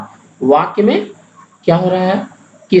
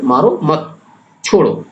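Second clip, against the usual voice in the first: "मारो मत" together, short break, then "छोड़ो"; group "मारो मत", pause briefly, then "छोड़ो"; pause after मत. Shown as a demonstration. Teacher repeating the comma after मत for students, pause before "छोड़ो". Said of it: "अल्प विराम अगर".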